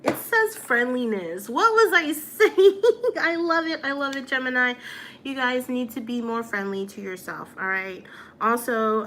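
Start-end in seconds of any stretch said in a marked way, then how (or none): 1.5-3.8 higher, louder, laughing through the words; real giggly amusement, slowed. Real, not acted. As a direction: crack up at yourself mid-sentence. Laughs at her own mix-up.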